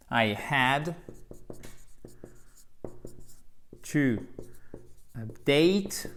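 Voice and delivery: long pauses between "I had", "to" and "update"; slow model sentence. Shown as a demonstration. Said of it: "une action qui se passe et qui se termine".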